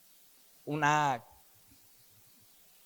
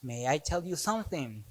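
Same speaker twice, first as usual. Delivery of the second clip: Paul quietly speaking English; 11 dB quieter than usual. Acted. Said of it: "¿Y qué le dice?".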